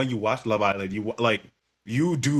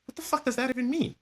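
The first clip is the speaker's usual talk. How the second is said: baffled outburst. Retold or imitated. Baffled reply to friend's remark.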